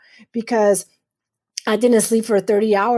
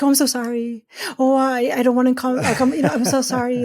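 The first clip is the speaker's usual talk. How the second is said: mock the woman who keeps apologizing; over-apologetic; 3 semitones higher than usual. Women apologizing too much, mild fussy sorry. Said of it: "Because we are apologetic".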